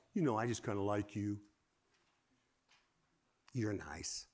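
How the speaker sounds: soft, wimpy mock compliment. Mocking half-hearted encouragement to a friend, wimpy. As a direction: say it weakly, trailing into a low murmur. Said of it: "this wimpy stuff like".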